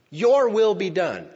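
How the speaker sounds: loud, slow and high, a cry of resolve; battle cry. Shown as a demonstration. Preacher voicing Jesus to the congregation, a loud battle cry. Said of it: "Jesus said that as a battle cry".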